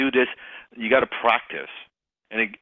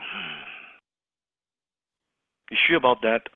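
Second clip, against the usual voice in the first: sceptical. Retold or imitated. Closer doubting the prospect's plan, sceptical. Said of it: "I was sighing like crazy".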